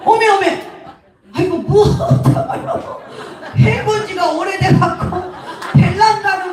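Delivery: put-on high, flustered old Jeolla woman; flustered Jeolla granny. Mother-in-law baffled by the phone call, flustered Jeolla dialect. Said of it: "할머니가, 시어머니가 전화를 딱 받았는데".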